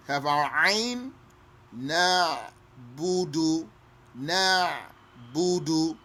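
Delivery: ayn in "na'budu" said clearly and slowly; slow recitation. Shown as a demonstration. Teacher reciting slowly, ayn clear.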